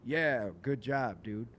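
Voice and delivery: slow, drawled mock praise; casual congratulation. Shown as a demonstration. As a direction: stretch it out like offhand congratulations. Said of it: "inflection in his voice is not meant".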